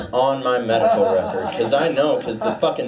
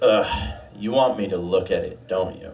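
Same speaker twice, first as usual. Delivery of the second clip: grumpy doctor; 7 semitones lower than usual. Retold or imitated. Doctor voiced in story.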